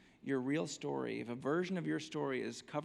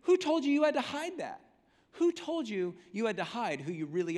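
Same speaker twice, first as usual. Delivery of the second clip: higher and louder, pleading; God challenging Adam, rising and urgent; impassioned God; 4 semitones higher, 4 dB louder than usual. Acted. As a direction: press every "who" like an angry father. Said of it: "what God's saying is".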